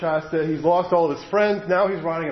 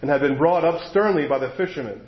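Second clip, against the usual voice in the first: reading a novel aloud to a congregation; story reading; 2 semitones higher than usual. A narrator's reading. Preacher reading the book to his listeners, storytelling voice. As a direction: lets the story unfold, voicing it lightly.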